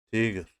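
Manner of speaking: تیگر said as Russian "tigr", a short loud syllable; تیگر as a teacher's emphatic example; Russian word. Shown as a demonstration. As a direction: model تیگر sharply, falling at the end. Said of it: "مثل".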